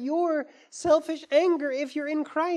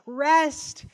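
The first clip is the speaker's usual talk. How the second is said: gentle invitation; 4 dB louder than usual. Retold or imitated. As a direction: offer rest to the tired. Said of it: "He's saying".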